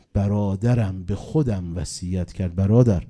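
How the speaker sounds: slow, rising to a loud cry; loud slow lament. Acted. Preacher to mourners, crying out the brother's wish slowly and loudly.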